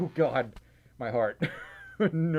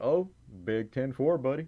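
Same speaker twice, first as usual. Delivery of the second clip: put-on sudden Southern American accent; 2 semitones lower than usual. Reading out a donor's message aloud: random Southern accent. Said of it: "does this random Southern accent just come out?".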